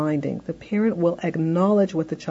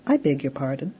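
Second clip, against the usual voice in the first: blocking prompt; 3 semitones lower, 3 dB quieter than usual. Shown as a demonstration. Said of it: "All we do is we say".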